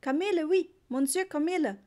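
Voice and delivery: foreign trader's broken German, high and loud; broken German with French. A narrator's reading. Trader calls to Papa in a broken French-tinged German. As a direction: hawk it in a thick foreign accent. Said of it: "sagte ein älterer Mann".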